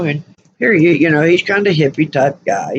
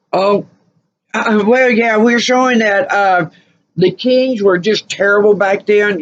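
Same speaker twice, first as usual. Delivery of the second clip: mock archaeologist; 4 semitones higher than usual.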